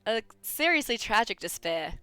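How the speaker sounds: put-on character lines in an amateur Australian accent. Game character talking of hope and despair, Australian accent. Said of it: "with the characters just as my normal talking voice".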